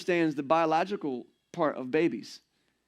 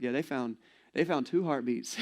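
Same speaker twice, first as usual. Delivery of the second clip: stunned flat voice; 4 semitones lower, 5 dB quieter than usual. Retold or imitated. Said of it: "the paleness in his face... in his voice".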